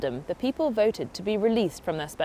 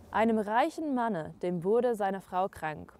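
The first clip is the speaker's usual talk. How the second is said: fairy tale reading; 7 dB quieter than usual. Acted. Presenter opening a Grimm tale for viewers, softly hushed storytelling. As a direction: read it like a dark old tale by candlelight.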